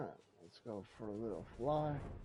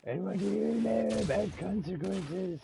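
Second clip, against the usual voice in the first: loud, higher, mock-indignant comeback; mocking retort; 10 semitones higher, 11 dB louder than usual. Real, not acted. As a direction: fire the question back at the character. Talking back to game character.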